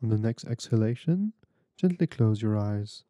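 measured, unhurried meditation guide with long pauses; guided meditation. Real, not acted. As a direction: guide them gently through breathing, phrase by phrase.

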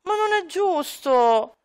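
a hint of a whiny kid, slow on the last words; complaining child. Son complaining to his dad, lightly whiny child. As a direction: lightly whine like a sulking boy. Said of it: "inizierà un po' a lamentarsi con suo padre".

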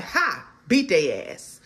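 slow, laughing mock gloat over the losers; chuckling, smug little taunt. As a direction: laugh it out like you're winning the race. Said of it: "and you like".

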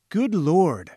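startled cry. A narrator's reading. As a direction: cry out in shock. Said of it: "I cried".

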